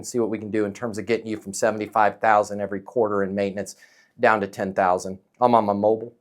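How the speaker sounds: low, soft, even pilot announcement; calm pilot voice. Shown as a demonstration. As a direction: talk like an airline captain on the intercom. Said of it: "Notice how I sounded like a pilot there".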